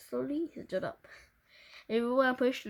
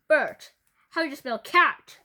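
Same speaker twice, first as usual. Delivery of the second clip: asking; 4 semitones higher, 10 dB louder than usual. Acted. Teacher questioning pupil.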